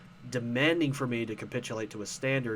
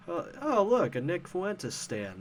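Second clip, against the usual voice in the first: mocking; 5 semitones higher, slower than usual. Mocking reply to a neo-Nazi.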